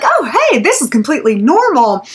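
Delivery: high, airy mock nonchalance; mock nonchalant. Mocking the creep acting like nothing happened, airy tone. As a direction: pretend nothing odd is going on. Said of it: "so nonchalant about it".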